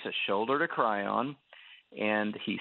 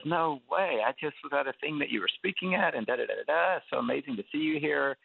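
bright, higher gushing of a starstruck fan; excited fan; 5 semitones higher than usual. Retold or imitated. Fan meeting the speaker at a restaurant, gushing excitedly. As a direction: gush like a fan who can't believe his luck.

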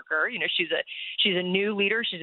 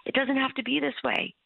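loving voice; 7 semitones higher than usual. Retold or imitated. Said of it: "this loving voice that's like".

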